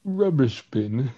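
put-on British accent. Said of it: "the British accent".

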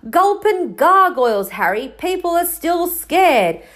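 high exclamation, then emphatic explanation; acted giant's startled protest; exasperated. A narrator's reading. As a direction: burst out in flustered exasperation. Hagrid exasperated at Harry's question.

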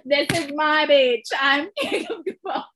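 loud, slow quote breaking into laughter; high, laugh-choked declaration; laughing while talking. Real, not acted. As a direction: proclaim it, then crack up. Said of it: "I can't say it without laughing".

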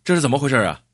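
narrator's understated angry bellow; angry roar. Acted. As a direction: demand an explanation in an indignant, half-hearted roar. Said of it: "张义超吼道".

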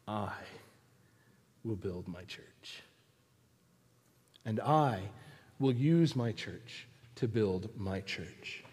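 God. Acted. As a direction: pronounce it quietly, with long pauses. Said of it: "I hear God's voice say".

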